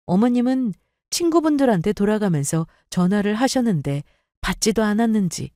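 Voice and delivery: plain reading voice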